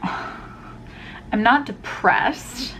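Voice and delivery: slow, sighing and weary; drained sigh. Real, not acted. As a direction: drag it out on an exhausted breath. Heavy sigh, drained after exam.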